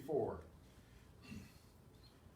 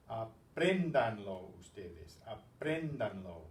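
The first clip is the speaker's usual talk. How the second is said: slow careful model; 3 semitones lower, 4 dB louder, slower than usual. Shown as a demonstration. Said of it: "teacher models the command".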